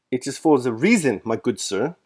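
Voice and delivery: a stout colonel's hammed-up German accent. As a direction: butcher a German accent on purpose. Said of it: "speaking with a German accent, which I am going to butcher".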